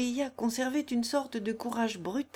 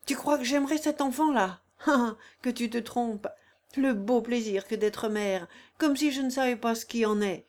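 cynical cold-blooded; 3 semitones higher, 3 dB louder than usual. Acted. Corilla mocks Consuelo's hope, cynical. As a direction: sneer at the idea of motherhood. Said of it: "avec un sang-froid cynique".

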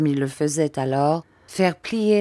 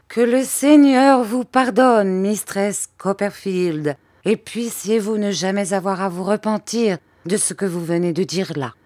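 pious maid; 3 semitones higher than usual. Acted. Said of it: "leva les yeux au ciel".

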